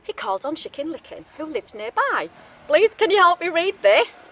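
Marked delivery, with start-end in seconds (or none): 2.7-4.2 lightly voiced pleading wolf; a hopeful wolf asking nicely; a hint of a polite wolf; wolf asking for help. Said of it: "he asked".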